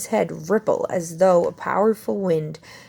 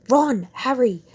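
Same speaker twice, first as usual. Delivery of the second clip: shaky voice; 4 semitones higher than usual. A narrator's reading. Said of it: "his voice sounding shaky".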